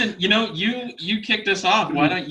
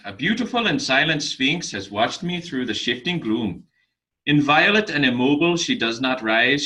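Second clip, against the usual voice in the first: attempted Irish accent drifting toward Eastern Europe; Eastern European-tinged accent. Contestant reciting a poem for an Irish judge, Eastern European-sounding accent. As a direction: recite verse with a hint of Dracula's accent. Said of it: "I think maybe more the Eastern European".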